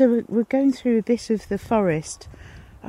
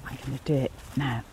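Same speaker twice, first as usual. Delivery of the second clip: hushed; 7 semitones lower, 9 dB quieter, much faster than usual. Real, not acted. About to hide from dog.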